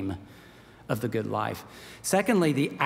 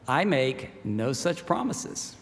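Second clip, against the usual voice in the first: stern lion; 3 semitones lower, slower than usual. Acted. Lion Aslan answers Jill.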